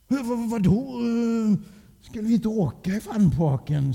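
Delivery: hög, stammande spelad oskuld; låtsas förvånat oskyldig med högre röst; lite oskyldigt. A narrator's reading. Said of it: "sa pappa lite oskyldigt". (oskyldigt undrande)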